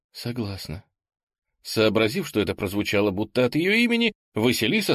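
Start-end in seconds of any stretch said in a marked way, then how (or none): 0.1-0.8 soft breathless whisper of yes. A narrator's reading. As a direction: whisper it, half lost in the moment. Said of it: "шёпотом ответила". (шёпотом)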